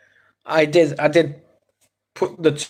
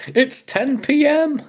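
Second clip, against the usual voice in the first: mock smartass; 11 semitones higher, slower than usual. Mocking a smartass reply.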